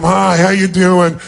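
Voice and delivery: bored, slow half-hearted greeting; dismissive. Shown as a demonstration. Speaker shows crowd a bothered greeting, dismissive. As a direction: greet them like a waste of time. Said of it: "like it's a total waste of your time".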